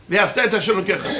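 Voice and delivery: "Ve'ahavta" said quickly toward its final "ta"; "Ve'ahavta" as quick ve-ahav-TA; end stress, as command. Shown as a demonstration. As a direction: race through, landing on the "ta" of "Ve'ahavta". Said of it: "c'est à la fin du mot".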